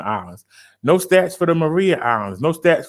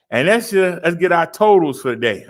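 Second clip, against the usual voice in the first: out of breath. Real, not acted. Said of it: "I'm out of breath".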